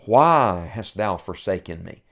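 measured, understated anguish in a retold plea; heart-wrenching plea. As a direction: let a little heartbreak into the quoted question. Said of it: "what he says after that is heart-wrenching".

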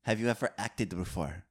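a light, hammed-up French accent. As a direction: play a self-important French director. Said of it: "I love your French accent".

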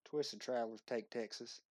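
hint of a Texas accent; Southern accent. Shown as a demonstration. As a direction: try a Southern accent on the title. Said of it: "I want your best Southern accent".

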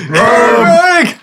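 high anguished cry of a name; cried out name. Acted. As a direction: wail the name. Crying out the character's name.

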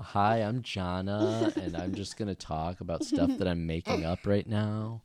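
lightly imitating a rambling child; slow, drawn-out mock kid chatter; Jana. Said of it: "did that sound just like you".

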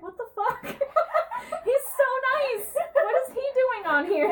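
cracking up in disbelief at the show; laughing disbelief. Retold or imitated. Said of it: "I was like".

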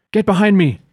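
yelling. Acted. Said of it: "Kilgrax yells to Anastasia".

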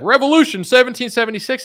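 high loud patriotic shout; mock an overexcited rally goer; mock rally cry. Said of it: "you're gonna be like".

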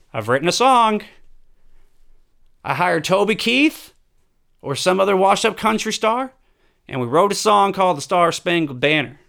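put-on lightly drawled southern-accented Trump; mock presidential announcement in a southern accent. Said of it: "Trump has a southern accent".

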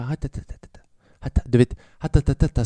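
mimics background chatter with nonsense syllables; chattering noise. Comedian imitating a noisy couple's chatter, muttered. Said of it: "stör mig inte".

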